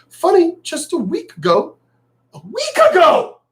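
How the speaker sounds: sarcastic pitch-up. Real, not acted. Sarcastic jab at school officials.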